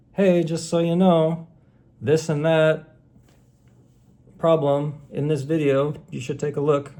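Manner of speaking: friendly notification voice. Retold or imitated. Imagined YouTube message to creator, mock cheery. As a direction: chirp it like a helpful pop-up. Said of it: "No little message box that says".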